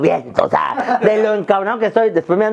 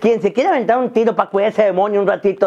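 normal talking voice

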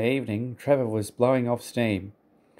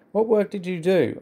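high, gently interested question; kindly; 9 semitones higher than usual. A narrator's reading. Edward asking Trevor about his old work, kindly. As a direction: ask kindly, with a lifted voice. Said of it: "asked Edward kindly".

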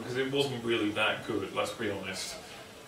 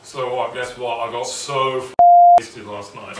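overly casual; 12 dB louder, slower than usual. Retold or imitated. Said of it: "leaning over like".

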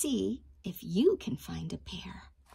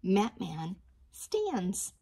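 slow reading; slower than usual. Shown as a demonstration. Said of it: "Let's say opposites".

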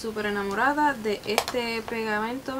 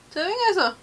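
surprised; 8 semitones higher, 4 dB louder, much faster than usual. Real, not acted. Amazed at the glitter.

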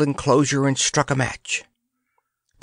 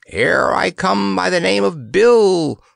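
whispered crow, higher pitch; a proud little rooster crow; crowing weathercock; 7 semitones higher, 4 dB louder than usual. A narrator's reading. Weathercock announcing himself to the company, crowing. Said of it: "crowed the weathercock".

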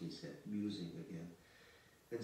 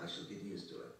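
grim and thoughtful; 2 semitones lower than usual. Acted. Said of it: "he said grimly and thoughtfully".

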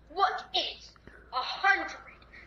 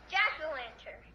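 mouth held open; 3 semitones lower, 4 dB quieter than usual. Shown as a demonstration. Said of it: "I didn't close my mouth".

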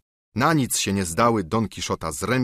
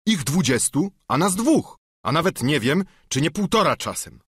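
higher, worried squire counting foes; a fretting squire, pitched up; fearful squire; 7 semitones higher than usual. Acted. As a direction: squire protesting the odds, higher. Sancho voiced.

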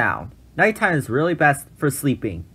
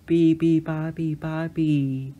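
cheerful; 3 semitones higher, 4 dB quieter, slower than usual. A narrator's reading. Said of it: "said the baby bird cheerfully".

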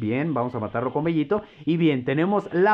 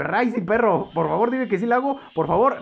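high, eager begging; will the move to land; excited pleading; 6 semitones higher than usual. Real, not acted. Streamer begging the game to let his combo hit, high and eager.

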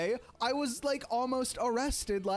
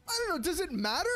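exasperated reply; 8 semitones higher, faster than usual. Retold or imitated. Retelling exasperated reply to clerk.

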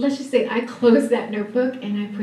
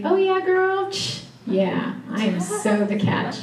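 mock boast; 9 semitones higher, 6 dB quieter than usual. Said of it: "How many of you can say".

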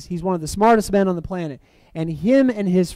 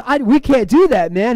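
higher-pitched, lightly acted objection; mock protest; 5 semitones higher than usual. Preacher voicing the friend refusing to fight the bear, protesting. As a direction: protest in a raised voice, imitating the doubter.

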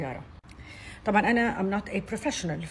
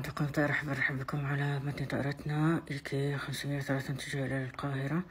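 pilot announcement. Shown as a demonstration. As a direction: address the cabin as the captain. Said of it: "يلا بينا الكابتن".

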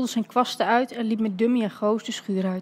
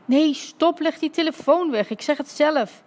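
higher, raised voice of protest; urgent interruption; 5 semitones higher than usual. Acted. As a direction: cut in quickly to stop someone. Dad urgently stops the phone call. (dringend tegenhouden)

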